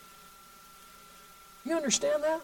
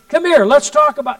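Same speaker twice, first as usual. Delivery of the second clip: retold call; 5 semitones higher, 9 dB louder than usual. Calling to the raging man.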